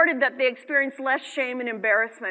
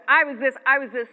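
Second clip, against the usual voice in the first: mock first-person complaint; 3 dB louder than usual. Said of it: "try when you're going into".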